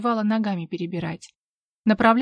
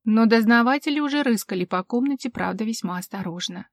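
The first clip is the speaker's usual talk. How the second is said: ordinary talk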